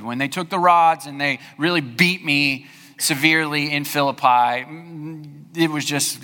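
imagined Paul shrugging off the floggings, a touch of irony; mock dismissive Paul. Pastor imagines Paul downplaying his beatings, mock casual. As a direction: toss it off as if it were nothing. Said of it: "can you imagine him saying".

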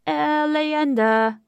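slow, loud mock Spanish chant; fake Spanish accent. A narrator's reading. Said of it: "in a fake Spanish accent".

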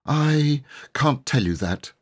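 firm. A narrator's reading. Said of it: "said Cyril firmly".

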